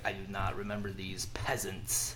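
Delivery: whispering. Retold or imitated. Illuminati member voiced, mocking.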